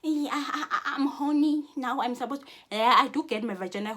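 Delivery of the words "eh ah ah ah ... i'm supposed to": high, giggly mock moaning voice; a laughing put-on whine of lust; mocking someone driven by desire; mock horny moan. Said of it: "Because your vagina said".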